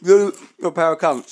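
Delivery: mock mouthful of crisps; talking while eating a crisp. Shown as a demonstration. Demonstrating to the hosts how he sounds eating a crisp. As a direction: garble it like you're munching. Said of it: "This is how I'm talking and eating a crisp".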